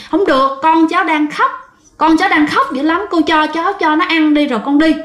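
put-on refuse, frantic for the baby; desperate plea. Mother refuses the ghost because her baby cries, frantic.

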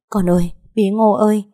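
put-on a sob-choked call to her little girl; tearful cry. Mother reunited with daughter, crying out her name. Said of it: "tôi lập tức òa khóc lên".

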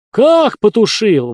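high, loud, slow wail; wailing cry. A narrator's reading. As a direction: cry out in dismay. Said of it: "возопили сектанты в один голос". (вопль отчаяния)

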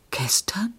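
a hint of a shocked old woman stammering; lightly voiced horrified stammer; dismayed stammer. A narrator's reading. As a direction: falter it out, aghast. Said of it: "stammelte Frau Margit".

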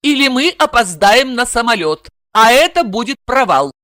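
lightly voiced cool blonde; a hint of a cold warning; blonde's ultimatum. Блондинка предупреждает Игоря, слегка холодно. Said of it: "заявив".

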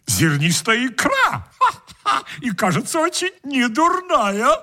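high, smug guest voice; greedy guest voice. Acted.

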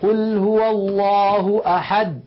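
slow recitation with the د of أحد cut off; wrong recitation; no qalqala. Shown as a demonstration. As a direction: recite أحد with a dead stop. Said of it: "لا يقولون".

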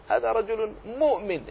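مؤمن said with the hamza dropped, as مومن; hamza pronunciation. Shown as a demonstration. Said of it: "لا أحد لا يقول".

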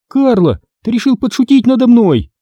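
high, sharp indignant question. Acted. Girl confronts her brother over the missing creature, indignant. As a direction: accuse him of a cruel prank. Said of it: "возмутилась я".

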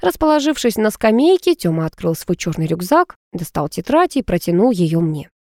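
ordinary delivery

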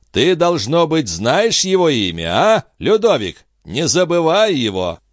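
a stern avenger, high and deliberate; grim prophetic stranger. Acted. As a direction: speak like a prophet of doom to the king. Bio threatens the king.

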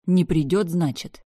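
simmering anger. Acted. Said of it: "Гнев распирал меня изнутри".

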